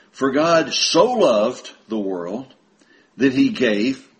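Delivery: measured, emphatic slow reading with pauses; slow scripture reading. Real, not acted. Preacher reading John three sixteen to brethren, slowly. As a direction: read slowly, dwelling on each phrase. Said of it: "sometimes it seems like I'm talking too slow".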